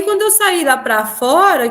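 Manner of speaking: ordinary talk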